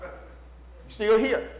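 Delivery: drawn-out, very slow; slow emphasis. Acted. Preacher telling married couples they still stand, slow. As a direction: let each word land slowly. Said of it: "slow emphatic repeat".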